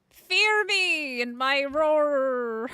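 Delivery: slow, drawn-out playful menace; mock fearsome. Streamer insisting she's no baby tiger, slow mock menace. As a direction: stretch it like a tiny beast trying to scare. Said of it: "it's fearsome roar".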